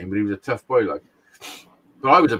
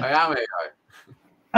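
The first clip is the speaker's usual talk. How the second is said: slow, deliberate mock robot; much slower than usual. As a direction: play a robot for a laugh, slowly. Jokes he is artificial intelligence.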